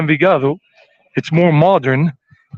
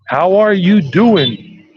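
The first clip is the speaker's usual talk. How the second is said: New York style; 3 semitones higher, much slower than usual. Shown as a demonstration. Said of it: "New York style".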